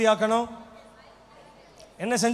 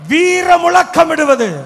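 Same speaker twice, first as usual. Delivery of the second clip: loud, slow, higher war-cry shout; battle cry; 5 semitones higher, 9 dB louder, much slower than usual. Shown as a demonstration. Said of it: "சத்தமா சொல்லுங்க". (வீர முழக்கம்)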